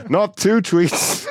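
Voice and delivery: high, slow, mock-horrified wail; sarcastic high wail of woe; mock dismay. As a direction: fake despair over the tweets, stretched out.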